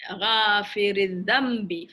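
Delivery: Ghafiril dhambi said slowly, dhambi drawn down; نطق بطيء; slow Arabic phrase. Shown as a demonstration. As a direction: model Ghafiril dhambi syllable by syllable. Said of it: "forgiver of sins".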